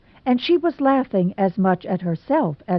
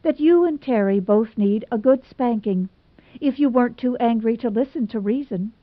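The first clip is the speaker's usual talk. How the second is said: exasperated; 4 semitones higher than usual. Acted. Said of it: "thoroughly exasperated".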